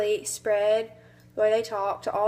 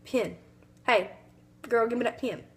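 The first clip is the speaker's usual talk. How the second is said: Southern grandma accent. Shown as a demonstration. Student imitating her Southern grandmother's accent. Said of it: "your grandma's talking in her accent".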